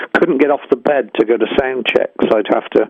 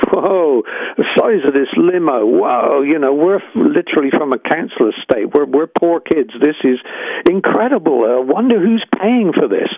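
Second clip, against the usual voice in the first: mildly wide-eyed retold amazement, rising higher at the end; awed excitement; 4 semitones higher than usual. Band member marvelling to the limo driver, retold awe. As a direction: re-enact being wowed, pitch lifting.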